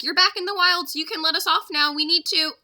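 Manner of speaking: urgent call. Acted. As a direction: hurry to get off the elephant. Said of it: "yelled Jack".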